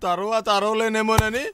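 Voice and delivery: slow, drawn-out comic whine; tearful wailing. Acted. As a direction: wail it out in advance, slowly. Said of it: "ఏంటి నాన్న ముందే అరుస్తున్నావు".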